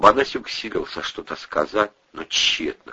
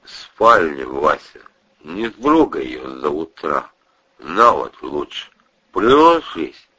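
put-on drunken voice; 3 semitones lower, 3 dB louder, slower than usual. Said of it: "совершенно пьяным голосом".

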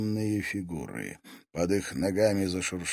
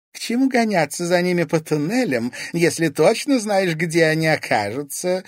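higher and louder, with a smirk; 10 semitones higher, 9 dB louder than usual. A narrator's reading. Society lady to the police chief, smirking. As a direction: sneer at the idea of chasing them. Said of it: "усмехнулась Вероника".

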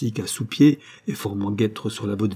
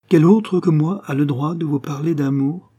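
passionate plea; 6 semitones higher, 5 dB louder than usual. A narrator's reading. Passionate declaration.

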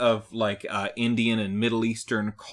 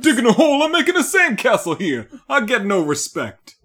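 Jabberjaw voice; 8 semitones higher, 7 dB louder than usual. Retold or imitated. Voicing Jabberjaw/Dangerfield comeback.

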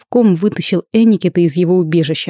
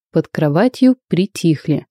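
ordinary delivery, nothing marked

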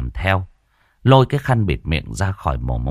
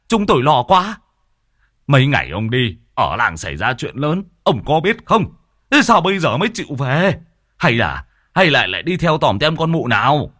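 put-on fussing scolding old man; 7 semitones higher than usual. Old friend scolds Hồng for vanishing, fretful and teasing. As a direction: pile on the worry and teasing blame.

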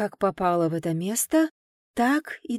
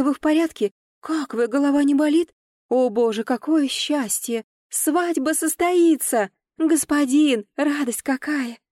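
high, louder overjoyed chatter; chirping maids; 6 semitones higher, 4 dB louder than usual. A narrator's reading. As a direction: gush with delight over the young mistress. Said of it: "защебетали".

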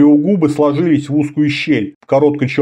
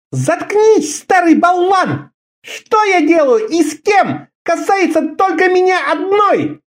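higher, sharp, furious retort; sharp angry cutoff. A narrator's reading. Karela, face burning, cutting Orda off angrily. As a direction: bite his head off. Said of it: "резко прервала его".

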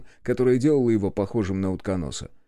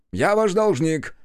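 slow, higher, louder relieved gush; relieved thanks; 7 semitones higher, 4 dB louder, slower than usual. A narrator's reading. Inspector thanks the sergeant, relieved and grateful. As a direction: blurt out your relief. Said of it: "облегчённо выдохнул Брэдстрит".

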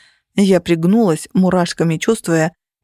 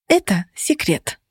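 slow, panting, a little hushed; breathless whisper; slower than usual. A narrator's reading. Heroine out of breath answering Phoenix mid-fight. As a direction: catch your breath between words. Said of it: "запыхавшись, прошептала я".

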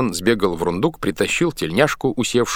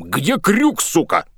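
angry demand; 9 semitones higher, slower than usual. A narrator's reading. Boatswain beats a sailor.

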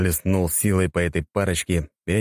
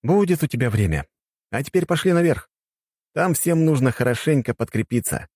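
higher, knowing, slowing at the end; knowing hero; 8 semitones higher than usual. Acted. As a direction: drag out the last words knowingly.

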